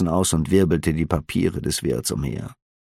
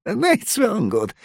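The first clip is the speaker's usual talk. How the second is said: soothing. A narrator's reading. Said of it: "beschwichtigte der Wirt ihn eilig".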